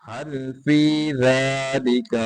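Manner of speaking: हल फी ज़ालिका with फी drawn out; lengthened fee. Shown as a demonstration. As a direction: stretch the vowel of फी. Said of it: "फी को लंबा करेंगे".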